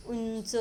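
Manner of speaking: उंच slow, with a held n before च; n sound shown. Shown as a demonstration. Teacher showing children the anusvara, उंच drawn out on n. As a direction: stretch the n in उंच. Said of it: "न आया".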